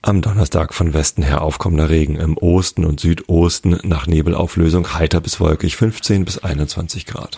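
weather forecast read. Acted.

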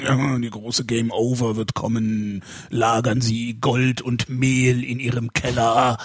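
slow, solemn doom preacher; doomsday prophet. Retold or imitated. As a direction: warn of the apocalypse, slowly. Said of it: "So, diese Typen".

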